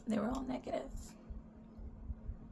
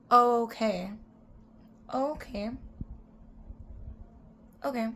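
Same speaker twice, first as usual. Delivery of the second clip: mock polite acceptance; 3 semitones higher than usual. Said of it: "whatever happened to just saying".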